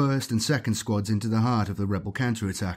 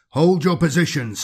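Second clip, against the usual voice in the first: higher and louder, hitting hold; shouted order; 6 semitones higher, 6 dB louder than usual. Acted. Librarian ordering marines to halt, shouted command. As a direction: bark it across the battlefield.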